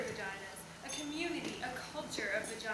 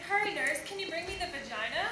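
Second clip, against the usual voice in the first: hurried doctor calling a nurse, slightly higher; surgeon's request; 3 semitones higher than usual. Acted. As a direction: ask the nurse for an instrument, pitch lifting at the end. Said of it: "Maybe a medical instrument?".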